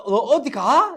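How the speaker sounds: 어디 stressed in a rising question. Shown as a demonstration. 선생님이 질문 억양 시범: 어디에 힘을 준 물음. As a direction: lean on 어디, rise at the end. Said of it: "이런 식으로".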